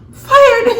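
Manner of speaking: high, loud shout of fired; mock firing shout. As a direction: yell it like a boss firing you. Acting out Judy firing Charity.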